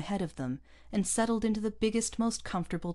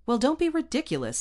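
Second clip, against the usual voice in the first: high, loud irritated snap; snappish; 10 semitones higher, 7 dB louder, faster than usual. A narrator's reading. Captain dismisses the colonist's figures, snapping. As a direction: snap it out, pitched up. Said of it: "snapped the captain".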